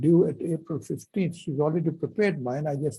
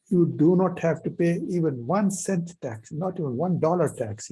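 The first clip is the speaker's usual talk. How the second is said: grave, firm and a bit louder; very serious; 2 semitones higher, 4 dB louder than usual. Retold or imitated. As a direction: say it dead seriously. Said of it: "very seriously".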